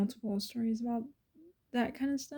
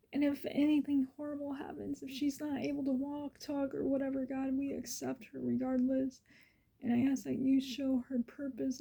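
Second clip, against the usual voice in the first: emotional prayer; 3 semitones higher, 3 dB quieter than usual. Retold or imitated. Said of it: "I was like, "Lord God".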